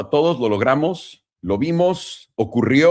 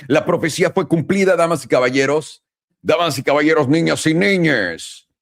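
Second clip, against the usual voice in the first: ringmaster; 4 semitones higher than usual. Pretend. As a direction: call it out like a circus ringmaster. Announcing the prophecy fulfilled.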